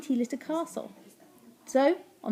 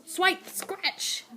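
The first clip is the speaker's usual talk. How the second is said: high, sharp action words; claw effects; 7 semitones higher, 4 dB quieter than usual. A narrator's reading. Narrator plays the cats' claws, high effects. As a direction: fling out each swipe.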